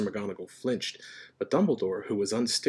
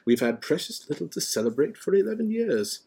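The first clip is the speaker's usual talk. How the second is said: mild, reasonable, higher-pitched voice; gentle; 8 semitones higher, 3 dB louder than usual. A narrator's reading. Dumbledore excusing the celebrations, gentle. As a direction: reason with them kindly. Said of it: "said Dumbledore gently".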